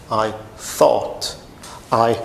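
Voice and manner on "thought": "thought" with unvoiced TH; TH sound. Shown as a demonstration. Teacher puts it after I for learners, "thought" with TH. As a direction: say "thought" tongue between teeth, not F. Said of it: "com som de T H".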